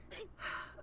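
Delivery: quiet breathy sigh; soft sigh. Acted. Husband responding to his wife's gratitude, soft sigh. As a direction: let out a small acted sigh.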